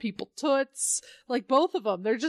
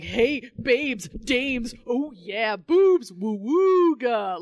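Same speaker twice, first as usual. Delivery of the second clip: leering cartoon wolf; 4 dB louder, much slower than usual. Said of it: "they're like".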